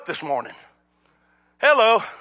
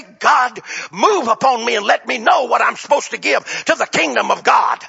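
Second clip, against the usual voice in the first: fervent prayer; 2 semitones higher, 5 dB louder than usual. Acted. Preacher voicing a prayer aloud.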